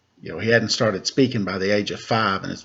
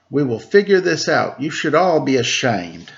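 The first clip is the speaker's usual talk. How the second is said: proclaiming mother; 5 semitones higher, 5 dB louder than usual. Acted. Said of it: "her mother proclaimed".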